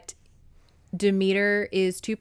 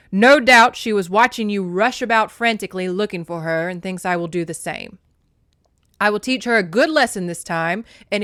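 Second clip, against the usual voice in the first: loud, sharp scolding mother; mom voice; 6 dB louder than usual. Acted. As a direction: snap it like a strict mom. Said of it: "I'm having to get into my mom voice there for Demeter".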